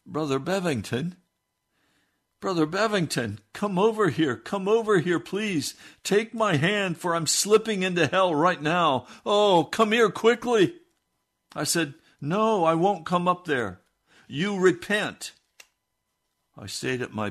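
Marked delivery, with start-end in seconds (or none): 0.0-10.8 high, loud frantic pleading; desperate calling. Retold or imitated. Jim calling the preacher to take his hand, high frantic pleading. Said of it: "he called out". 12.2-15.3 high, loud, slow on repent; stern refusal. Retold or imitated. Preacher refusing to come up, sternly ordering Jim to repent.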